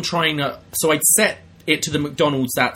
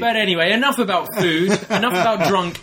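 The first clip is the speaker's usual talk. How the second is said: laughing through it; 5 semitones higher than usual. Real, not acted. Changing topic while laughing.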